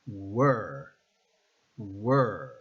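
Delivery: Were begun with a Spanish U glide, "U-er"; Spanish U start. Shown as a demonstration. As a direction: open Were with a U vowel. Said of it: "replace it in your mind with the Spanish letter U".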